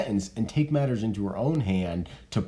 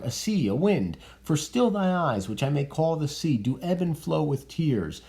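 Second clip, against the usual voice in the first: reading Lord Capulet; 8 semitones higher than usual. Acted.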